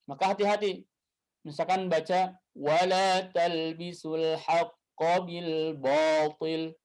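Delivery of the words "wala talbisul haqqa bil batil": slow recited verse; teacher reciting an example; Quran recitation. Shown as a demonstration. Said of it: "Quran example read slowly".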